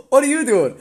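loud, high disbelief; stunned question. Retold or imitated. Brother amazed to see him home, loud and high. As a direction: fire it at him in shock.

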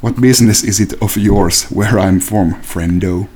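slow, even, lightly voiced killer; a hint of cold menace; menacing Chigurh. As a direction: Javier Bardem's Chigurh at the counter, lightly done. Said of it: "saat oon gas station proprietor".

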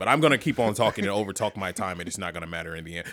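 lightly voiced long-winded debater; imitating filibustering politician. Mocking Pence's debate filibuster to a co-host, imitating a politician. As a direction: keep talking on like a stalling candidate. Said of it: "that motherfucker was out there filibustering. Just talking".

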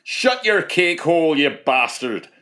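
put-on slow, high Irish-accented jeer; mock Irish accent. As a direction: throw the insult out in a hammed-up Irish accent. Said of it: "I've got Irish heritage as well".

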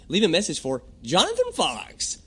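stiff, even, mechanical read; robotic greeting. Retold or imitated. Mocking a stiff recorded greeting to callers. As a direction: say it like a machine. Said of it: "it sounds very robotic".

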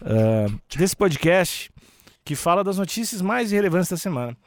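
slow, stretched radio host opening; podcast host intro. Acted. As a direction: announce the show like a radio host.

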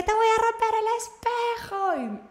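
high, loud hammed-up threat; loud high mock-angry threat. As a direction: threaten him, playing it up. Threatening the other driver.

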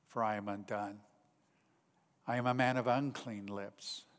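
hushed confession with long pauses; solemn scripture quote. Acted. Isaiah confessing to God his unclean lips, solemn and hushed. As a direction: recite it softly, as a humbled confession.

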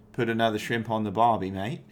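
demonstrating an Australian catchphrase accent. Shown as a demonstration. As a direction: give an easy, light Australian accent. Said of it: "Australian thing you do".

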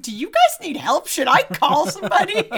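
playful mock alarm; mock concern. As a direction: act out a worried offer of help, voice climbing. Acting out the princess's concern.

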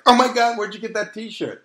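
lightly voiced stranger excited about a t-shirt; mock excited stranger. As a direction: gush like a fan spotting the shirt. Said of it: "the t-shirt itself will be like".

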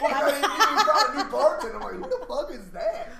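high, loud voice over laughter; loud laughing. Real, not acted. Explaining he thought Candy was a new bartender, laughing loudly. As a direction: protest loudly while cracking up.

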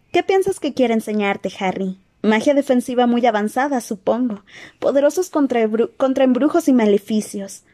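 put-on worried girl, earnest and gentle; Hermione voice.

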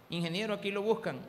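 plain first call of "Ingeniero, aquí lo buscan"; receptionist calling. Retold or imitated. Receptionist tells engineer he has a visitor, matter-of-fact. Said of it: "repeated call, second more insistent".

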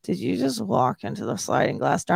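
lightly groggy, gummy-mouthed question; a touch of just-woken slurring; gummy sleepy mumble. Retold or imitated. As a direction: ask it as if barely awake.

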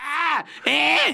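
high, squealing mock outburst; mock sudden yelling. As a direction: imitate people shrieking out of nowhere. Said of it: "quem grita do nada".

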